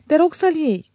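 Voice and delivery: hammed-up fond offer of the ring; theatrical affection. A narrator's reading. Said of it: "cu toată afecțiunea teatrală". (afecțiune teatrală, mai sus)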